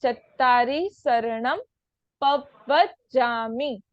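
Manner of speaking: slow syllables, पवज्जामि as pav-vaj-jaa-mi; deliberate शरणम with "s", stretched पवज्जामि; doubled व and ज. Shown as a demonstration. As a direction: split पवज्जामि, holding both double consonants. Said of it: "पर आधा व पूरा व".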